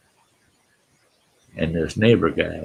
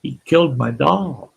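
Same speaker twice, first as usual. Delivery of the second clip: high-pitched mock wail of a little girl; lightly acted, high plaintive complaint; imitated crying girl; 9 semitones higher, 3 dB louder than usual. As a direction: imitate an upset child tattling. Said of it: "She's just crying".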